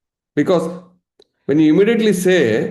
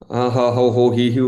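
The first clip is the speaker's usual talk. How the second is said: mock wailing; 3 semitones lower than usual. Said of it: "Emotional drama".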